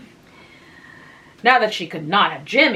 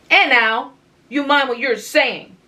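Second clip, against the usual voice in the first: higher, louder mock-warning; crying out; 6 semitones higher, 5 dB louder than usual. A narrator's reading. Anne admonishing Tom with a pat, crying out. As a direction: call out a playful warning. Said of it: "cried Anne".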